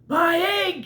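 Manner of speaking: high, loud cry of joy; high excited elephant shout. Acted. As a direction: shout it out, overjoyed. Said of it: "shouted Horton".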